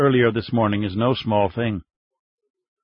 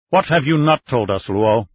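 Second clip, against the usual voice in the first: harsh question; 3 dB louder than usual. Acted. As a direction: cut at him with the question. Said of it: "Xian asked harshly".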